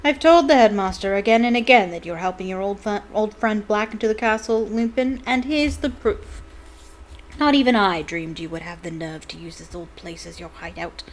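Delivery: a cold, gloating professor; gloating teacher. Acted. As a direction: savour every word of the triumph. Snape accusing Lupin.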